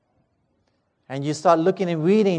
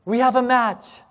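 mock screaming; 4 semitones higher than usual. Doctor bursting in on waiting crowd, mildly shouted announcement. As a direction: call it out like a mild mock scream. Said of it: "he starts screaming".

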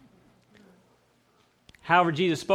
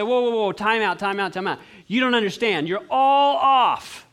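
mock correction; 4 semitones higher, 4 dB louder than usual. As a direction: stop her short, then shout the last words. Hypothetical Jesus correcting.

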